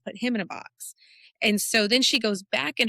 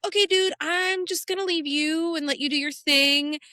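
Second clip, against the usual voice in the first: quoting her, high; 6 semitones higher than usual. Retold or imitated. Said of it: "She's like".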